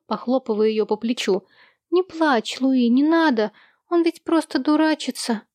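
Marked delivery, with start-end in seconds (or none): 1.9-5.4 comforting little brother. Acted.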